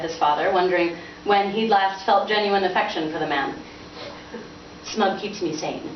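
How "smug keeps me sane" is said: slow, softer, deadpan mirror; dry retort. Acted. Son mocking his father's line, deadpan. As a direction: throw his words back at him. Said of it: "Spire replied after a tense moment".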